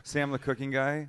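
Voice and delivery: a little firmer, asked to repeat it; mock-embarrassed repeat of the name; repeating for clarity. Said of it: "I'm sorry, who?".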